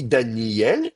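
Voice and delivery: "Daniel" drawn into Dani-yel; gliding. Shown as a demonstration. Teacher introduces the glide, gliding "Daniel". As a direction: slide from i into el in "Daniel". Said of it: "je vais avoir un glissement".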